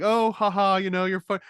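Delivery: hammed-up nanny brushing off the child; mock breezy dismissal. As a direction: brush it off sweetly. Retelling character brushing it off.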